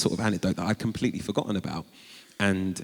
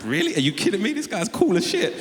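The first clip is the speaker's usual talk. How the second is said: mock starstruck squeal; amazed disbelief; 13 semitones higher, 3 dB louder than usual. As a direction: voice shooting high in disbelief. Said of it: "I was like".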